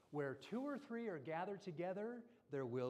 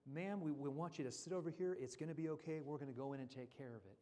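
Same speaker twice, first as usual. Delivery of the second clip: calming voice; faster than usual. Acted. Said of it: "In that calming voice".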